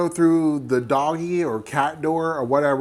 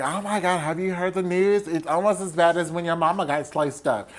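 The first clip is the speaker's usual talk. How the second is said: high, lightly acted gossipy friend; higher-pitched mock shock at the news; 4 semitones higher than usual. Friend breaking news to Sidney, mock gossipy.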